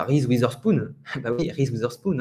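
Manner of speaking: "Witherspoon" with z for th; French pronunciation. Shown as a demonstration. Teacher as someone without English, no English th. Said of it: "ne va pas faire un beau T H".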